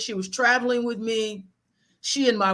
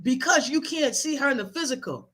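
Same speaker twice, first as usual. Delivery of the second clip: high, no-nonsense grandmother lecture; blunt grandmother lecture; 4 semitones higher than usual. Retold or imitated. Grandmother telling grieving grandson to get over it, blunt. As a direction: scold him straight like a blunt grandma. Grandmother's long scolding, voiced.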